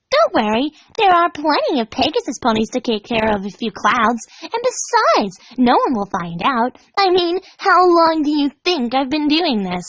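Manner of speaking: high and breezy; cheerfully ominous Pinkie. Acted. Pinkie calmly reassuring her terrified prisoner. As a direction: reassure her while hinting at horror.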